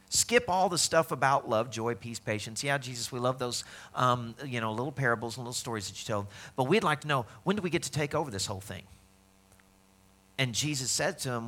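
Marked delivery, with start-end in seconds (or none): 0.1-8.8 dismissive, impatient brush-off. Retold or imitated. Crowd to Jesus, impatient to take over, dismissive. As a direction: wave it all away and get to the point. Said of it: "Their question was".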